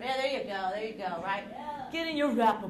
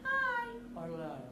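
pitch demo; 10 semitones higher, 5 dB quieter, slower than usual. Shown as a demonstration. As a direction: play the word high up high. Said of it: "by changing the pitch".

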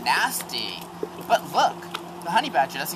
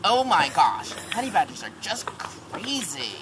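bird voice; 6 semitones higher than usual. Acted. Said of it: "A bird nearby says".

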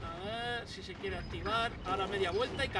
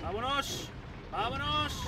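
1 euforia; 8 semitones higher than usual. Real, not acted. Huye eufórico.

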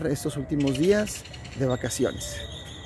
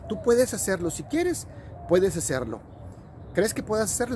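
higher, cheering voice of a friendly sun; encouraging Sun; 5 semitones higher, 3 dB quieter than usual. Acted. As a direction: lift the child up, you can do it. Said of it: "el amigo Sol le dijo a su amiguito Emoción". (el Sol animando con voz aguda)

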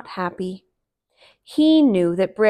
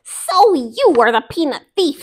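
Brer Fox; 6 semitones higher, 9 dB louder than usual. Acted. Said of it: "said Brer Fox".

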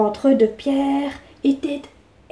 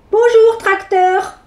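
cheeky; 6 semitones higher, slower than usual. Acted. Bewitched boy insults.

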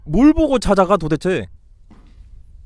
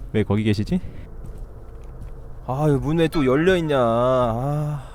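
usual speaking voice

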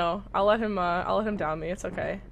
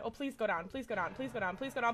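quiet pleading; 6 semitones lower, 12 dB quieter than usual. Real, not acted. Begging quietly during tense moment.

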